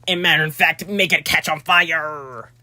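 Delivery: slow, drawn-out warning; a mock-dramatic slow warning; odd drawn-out voice. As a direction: stretch out "make it catch on fire" ominously. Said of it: "I don't know why I'm talking like that".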